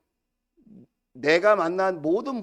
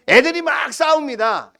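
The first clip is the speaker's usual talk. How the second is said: raised voice; 7 semitones higher, 6 dB louder than usual. Real, not acted. Sudden raised preaching voice.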